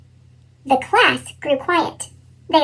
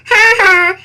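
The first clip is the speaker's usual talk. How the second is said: laughing; 3 semitones higher, 5 dB louder than usual. A narrator's reading. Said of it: "Anna laughed".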